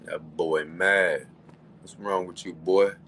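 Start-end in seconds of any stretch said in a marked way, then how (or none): 0.0-1.3 very slow, mocking taunt; mocking drawl. Real, not acted. Host mocking the caller he just kicked off, slow and taunting. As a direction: stretch it out to mock him.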